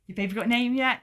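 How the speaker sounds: mock-helpful questioning lilt; nurse checking in. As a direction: lightly imitate a nurse asking on her rounds. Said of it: "every time the nurse would come around".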